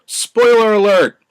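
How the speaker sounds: big, slow, high announcer shout; slow hammed-up alarm call; spoiler warning. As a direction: boom it out like a movie trailer warning. Warning viewers before revealing plot.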